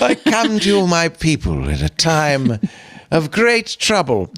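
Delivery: grand royal proclamation, slowing at the end; hammed-up monarch addressing the nation, drawn out; mock Queen's speech. After teasing about her Queen's English, a mock-royal proclamation, slow at the end. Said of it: "You speak the Queen's English".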